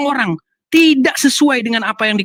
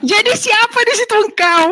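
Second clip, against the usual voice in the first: high-pitched, insistent questioning; high, impatient challenge; exasperated demand; 11 semitones higher than usual. Real, not acted. Exasperated repeat of question in debate.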